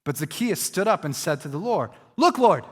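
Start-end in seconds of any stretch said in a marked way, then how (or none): 2.2-2.6 enthusiastic. Retold or imitated. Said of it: "the kind of enthusiasm".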